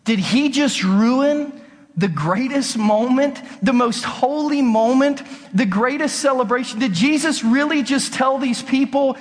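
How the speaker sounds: preacher's stunned rhetorical build; incredulous. Acted. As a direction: lean hard into the outrage of each question. Preacher's incredulous opening questions.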